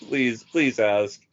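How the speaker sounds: drawn-out, slow begging; slow, gleeful mock plea; eager mock pleading. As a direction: savor each word as you plead. Acting out eager begging inwardly.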